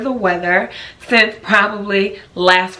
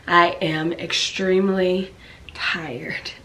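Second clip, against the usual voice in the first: breathy whisper, slow and worn out; drained whisper about constant exhaustion; tired whisper; slower than usual. Real, not acted. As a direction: whisper it like you can barely stay awake. Describing exhaustion, unvoiced.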